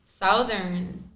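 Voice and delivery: Southern with the "ou" of "south", rhyming start with "mouth"; Southern said "SOW-thern", like the word south plus -ern; saying Southern as South-ern. Real, not acted. Teased by friends for saying Southern, "SOW-thern" with a south vowel. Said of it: "You mean Southern?".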